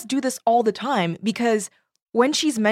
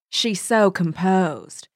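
slow, drawn-out Southern belle gossip; Southern accent; much slower than usual. Acted. Reading gossiping cousins aloud, Southern accent. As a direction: murmur it like a genteel Southern lady. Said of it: "That was an excellent accent".

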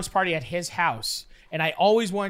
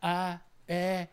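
halting pre-sneeze noises; mimed sneeze build-up; 6 dB quieter than usual. Retold or imitated. Teen about to sneeze the coke away, mimed sneeze build-up. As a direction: act out a sneeze coming on.

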